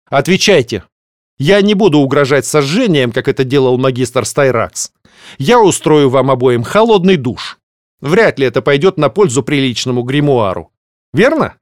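dark lord. Acted. Threatening the conspirators.

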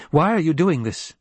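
put-on a scared boy demanding an answer. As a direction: push her for an answer. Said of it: "he demanded".

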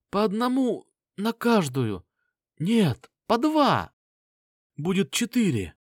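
an injured inventor rambling through pain; wounded Lin. A narrator's reading. Wounded Lin voiced by narrator.

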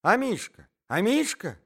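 high, loud cry of a lady; high exclamatory cry. A narrator's reading. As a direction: call out in high-pitched alarm. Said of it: "закричала дама".

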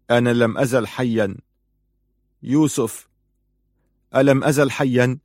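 bewildered, rising in urgency; dazed astonishment. A narrator's reading. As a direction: ask it as if you can't believe it. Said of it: "نظر إلى يوسف في ذهول".

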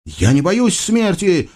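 гордый юноша. Acted. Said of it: "гордо выгнул грудь".

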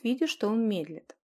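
plain reading voice

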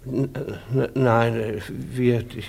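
nervous stammer, trailing off. Acted. Peddler stammering under the housewife's questions. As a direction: caught out, he can't get words out. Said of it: "Warum stammeln Sie?".

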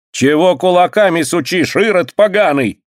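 high, shrill-pitched scolding woman; scolding washerwoman. A narrator's reading. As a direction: tear into him like a washerwoman. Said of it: "наступает ... прачка".

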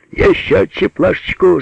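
high, called-out order; commanding. A narrator's reading. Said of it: "скомандовал Алёша". (командный выкрик)

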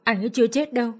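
high, pleading through tears; tearful pleading. Acted. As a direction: beg him for help, half crying. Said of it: "Tôi vừa khóc vừa dập đầu". (cô gái vừa khóc vừa van xin chú)

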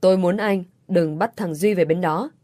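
"Tôi muốn anh đừng bắt thằng Duy về bên đó" with every word spoken separately and clearly; over enunciating. A narrator's reading. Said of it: "rồi nói rõ từng tiếng một". (nói rõ từng tiếng "Tôi muốn anh đừng bắt thằng Duy về bên đó")

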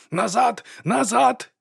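high, loud barked order to the crowd; yelled command. A narrator's reading. Mr White yelling at the auditors to get back. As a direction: shout them back, voice cracking high. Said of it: "зарепетував він".

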